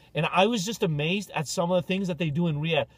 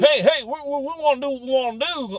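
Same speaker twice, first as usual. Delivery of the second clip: high, loud hammed-up French Canadian whine; mock French Canadian; 10 semitones higher, 7 dB louder than usual. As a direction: parody a Quebecer protesting. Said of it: "mocking French Canadians".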